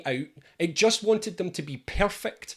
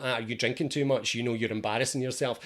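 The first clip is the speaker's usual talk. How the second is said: nagging inner voice; 6 semitones lower than usual. Retold or imitated. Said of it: "it's in there going like".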